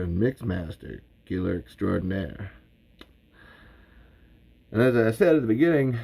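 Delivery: lightly voiced Southern show host; Bert Gummer as host. Bert welcomes listeners to Talking Tremors, light Southern pride. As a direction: introduce yourself proudly as the expert. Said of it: "like, Southern for Bert".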